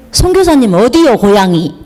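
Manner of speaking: put-on asking in a light Jeolla country accent; lightly imitating a Jeolla elder asking where she's from; 전라도 사투리로 가볍게 묻듯이; Jeolla dialect. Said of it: "딱 그 전라도 말로 딱 하는 거예요".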